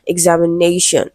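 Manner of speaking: "examination" with the weight just before the final "shun"; stress before "shun". Shown as a demonstration. Teacher giving another example of the rule, "examination" stressed on "na". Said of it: "stressed on the syllable before".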